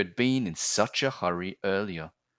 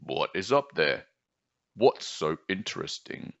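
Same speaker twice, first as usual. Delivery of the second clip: croaking frog. Acted. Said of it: "croaked a voice".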